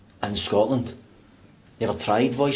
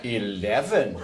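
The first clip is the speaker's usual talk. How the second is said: slower put-on English accent; 4 semitones lower, much slower than usual. Man outdoing his friend, fake English accent. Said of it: "Try an English accent, right?".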